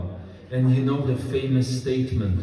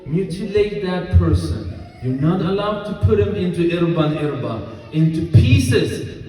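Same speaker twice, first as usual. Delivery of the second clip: stern command; 3 semitones higher, 5 dB louder than usual. Acted. Ali's command forbidding mutilation.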